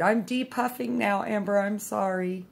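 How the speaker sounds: playful high-voiced imitation of an apology; imitated apologetic friend.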